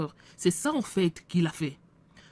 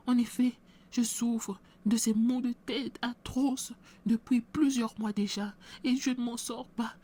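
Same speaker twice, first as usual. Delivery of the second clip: higher, pained voice of a sick woman begging for prayer; pleading sick woman; 5 semitones higher than usual. Acted. Sick woman begs the pastor to pray, higher pained plea. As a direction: plead through the pain, pitched up.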